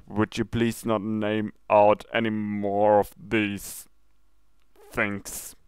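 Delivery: slow, strained plea from a sick guard; barely holding back nausea; pained, weak voice. Acted. The sick commander begs his princess, slow and strained. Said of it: "he said in a very bleeding voice".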